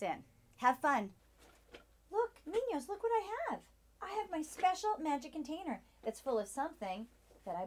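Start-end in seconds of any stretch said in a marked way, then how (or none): 2.1-5.8 excited. Acted. Teacher hooks kids excitedly.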